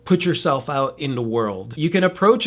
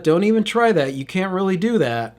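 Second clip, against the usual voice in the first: dismissive; 4 semitones higher than usual. Retold or imitated. Discouraging parent voice.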